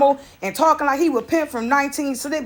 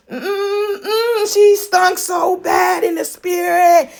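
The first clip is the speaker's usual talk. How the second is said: dad's disgusted exclaim; 5 semitones higher, much slower than usual. Retold or imitated. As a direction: lean into the disgust. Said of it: "He like".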